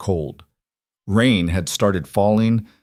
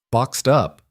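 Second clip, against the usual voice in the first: bright interruption; 4 semitones higher than usual. Acted. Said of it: "Lila interrupted brightly".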